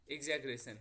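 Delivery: एग्जैगरेशन with a hard g in the middle; pronounced with G. Shown as a demonstration. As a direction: say एग्जैगरेशन, g sound before रेशन. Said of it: "कुछ लोग इसको एग्जैगरेशन पढ़ते हैं". (एग्जैगरेशन, बीच में 'ग' की आवाज़)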